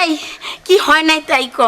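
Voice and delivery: loud, worked-up comeback; agitated retort. Acted. Mother answers her anxious daughter, agitated retort. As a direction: answer loudly, all worked up. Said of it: "তুমি এমন করতেছো কে মা?".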